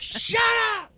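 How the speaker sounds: high yell held down in volume; whisper yelling. Retold or imitated. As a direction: yell it but keep it hushed. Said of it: "whisper yelling right now".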